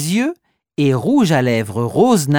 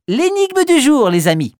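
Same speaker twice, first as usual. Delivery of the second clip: bright, raised announcing voice; riddle announcer; 9 semitones higher, 4 dB louder than usual. Acted.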